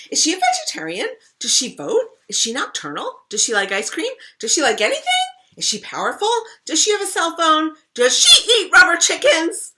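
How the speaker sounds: rapid, high, loud eager questioning; excited questions. Acted. Rascal pestering her siblings with eager questions, high and loud. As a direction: fire off questions bursting with curiosity.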